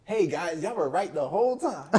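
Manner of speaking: loud, high call to the guys. Retold or imitated. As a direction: shout it across to your boys, half laughing. Telling his friends he was wrong.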